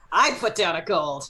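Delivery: slammed down with a laughing shout; aggressive. Acted. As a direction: say it like slapping a coin down.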